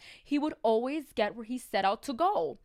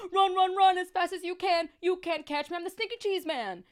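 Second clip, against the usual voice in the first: high sing-song taunt, much higher; taunting call; 8 semitones higher, 5 dB louder than usual. Acted. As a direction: tease them as he runs out the door.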